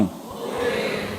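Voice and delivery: breathy whisper, no voice at all; whispered answer. Real, not acted. Preacher whispers the answer to his congregation. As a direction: drop to a hushed whisper for the grim answer.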